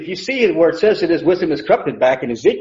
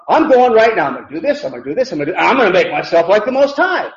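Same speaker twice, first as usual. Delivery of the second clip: imitating Satan's resolve; 2 semitones higher than usual. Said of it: "He's thinking within himself".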